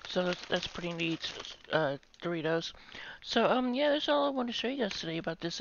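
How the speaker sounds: chewing between words; talking while eating chips. Real, not acted. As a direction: mouth partly full. Seen 1: Chip raised to mouth repeatedly while talking, hand in bag.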